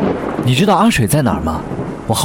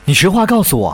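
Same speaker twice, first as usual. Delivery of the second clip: urgent demand; 7 semitones higher than usual. Acted. Demands the truth.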